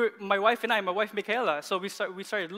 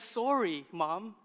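put-on softer, unforced child's sorry; imitated sincere apology; 5 dB quieter, much slower than usual. Dad retelling daughter's bedtime apology to mother, sincere and gentle. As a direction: say a simple, meant apology, lightly as a child. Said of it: "she actually said".

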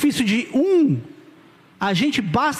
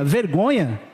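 lower, unbelieving repeat; incredulous echo; 4 semitones lower, much slower than usual. Real, not acted. Pastor echoing the member's shame, incredulous. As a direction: throw the word back in disbelief.

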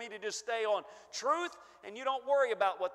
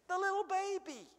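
put-on higher, marveling little baby; lifted in astonishment; rising wonder; 8 semitones higher than usual. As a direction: lift it up in amazement. Repeats the phrase for effect.

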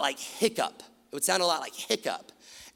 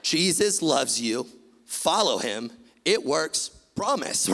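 louder, each phrase hit hard and slow; punchy loud sermon; 4 dB louder than usual. Shown as a demonstration. Preacher shouting his eight-word sermon to the crowd, bold. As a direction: preach it like you mean every word. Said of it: "Like this".

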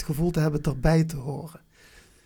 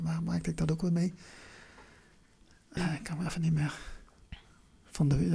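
usual speaking voice

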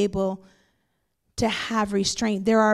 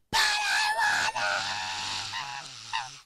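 put-on child's tantrum; 12 semitones lower, 5 dB quieter than usual. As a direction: screech it like a toddler throwing a fit. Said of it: "He throws this huge tantrum".

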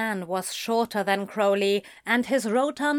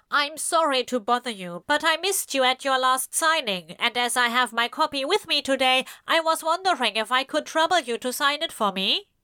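lightly voiced, quick smarmy stranger; a hint of rehearsed politeness, pushed along fast; smarmy rehearsed fan; 4 semitones higher, faster than usual. Stranger asking the author for a signature, lightly smarmy and fast. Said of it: "monotone, verging on smarmy, and sounded rehearsed".

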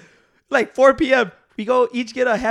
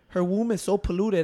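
lower, quieter, lightly voiced movie gangster; Tony Montana; 4 semitones lower, 5 dB quieter than usual. Repeating the movie line to friends, understated Tony Montana voice. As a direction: toss off the drug lord's line softly and low. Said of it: "everybody try to do the voice".

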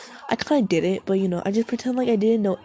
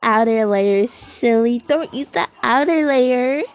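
mock scolding voice; 3 semitones higher, 3 dB louder than usual. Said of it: "a kern or something where that's like".

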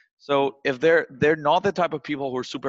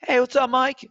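laid-back buddy voice; 10 semitones higher, 3 dB louder than usual. Shown as a demonstration. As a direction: lean back and greet him like a pal. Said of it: "laid back on your chair, be like".

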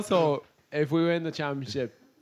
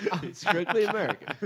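put-on American accent; 3 semitones higher than usual. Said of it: "Not American accents".

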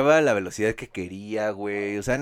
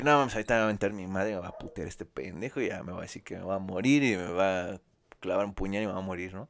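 panicked rush; 4 semitones lower, 6 dB quieter than usual. Retold or imitated.

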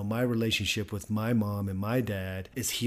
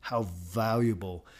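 "valuable" breathed out as a whisper; urgent whisper on "valuable"; whispered emphasis. Real, not acted. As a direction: drop to a whisper to make "valuable" land. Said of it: "put enough emphasis on the word valuable".

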